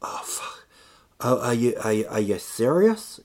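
breathed curse, then stammered disbelief; incredulous reaction. Acted. Reacting to Trump's "little bit of money", incredulous. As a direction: falter in mock disbelief. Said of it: "that's kind of like".

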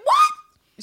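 very high, loud startled squeak. Retold or imitated. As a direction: squeak it out, caught off guard. Anne caught out, startled.

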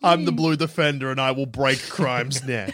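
voice modulator. Pretend. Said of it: "That's what the voice modulator says".

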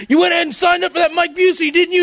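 hammed-up furious father scolding his son; mock angry dad.

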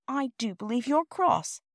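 high, slow, mildly dismayed; sighing worry. A narrator's reading. Child to the cross porter, slow and mildly dismayed. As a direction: draw it out with a worried sigh. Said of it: "said Bobby with a sigh".

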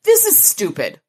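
high-pitched exasperated protest; frowning complaint. A narrator's reading. Murphy frowns at the search for the cave, complaining high. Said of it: "Murphy frowned".

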